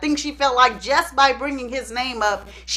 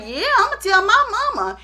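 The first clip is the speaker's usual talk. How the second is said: tattling friend; 8 semitones higher than usual. Retold or imitated. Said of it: "And the friend was like".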